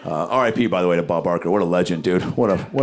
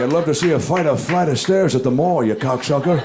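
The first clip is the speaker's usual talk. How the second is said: mock Joe Biden; 4 semitones higher than usual. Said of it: "he's just like".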